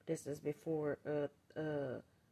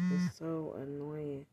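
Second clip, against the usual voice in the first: annoyed; 3 dB louder, slower than usual. Real, not acted. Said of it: "I'm so annoyed".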